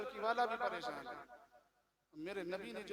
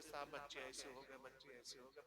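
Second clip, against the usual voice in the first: mock crying complaint; 9 semitones lower, 12 dB quieter than usual. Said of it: "फिर रोते हुए".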